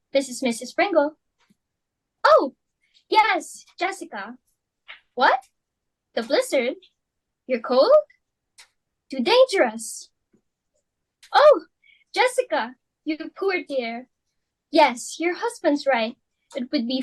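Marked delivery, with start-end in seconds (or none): 2.3-3.6 gushing. Acted. Phone call, gushing greeting. 11.3-14.1 sympathetic oh. Acted. Sympathy on the phone.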